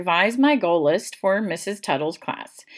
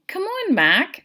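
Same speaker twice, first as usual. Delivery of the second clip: calling out; 12 semitones higher, 3 dB louder, slower than usual. A narrator's reading. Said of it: "Sarah called to me".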